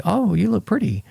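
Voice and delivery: high, breezy throwaway compliment; hollow compliment. Retold or imitated. Husband showing how a compliment sounds when he doesn't mean it, high and airy. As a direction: toss it off without meaning it.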